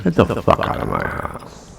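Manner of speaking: unvoiced seething whisper of anger; angry without yelling. Shown as a demonstration. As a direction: spit it out quietly. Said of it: "Without yelling at it".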